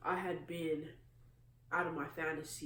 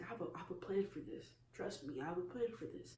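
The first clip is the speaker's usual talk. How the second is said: gently reassuring, a little softer; encouraging; 2 semitones higher, 4 dB quieter than usual. Retold or imitated. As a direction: offer soft, steady encouragement. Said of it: "he was encouraging".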